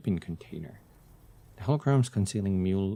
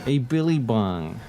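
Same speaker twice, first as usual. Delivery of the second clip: a hint of a put-on Australian accent on "A Billy Bong", slow and louder; bad Australian accent; 6 dB louder than usual. Shown as a demonstration. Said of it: "I can't do a very good Australian accent".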